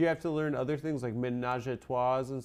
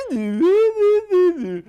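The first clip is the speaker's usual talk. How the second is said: imitating a Belgian accent; 15 dB louder than usual. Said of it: "then he did Belgian".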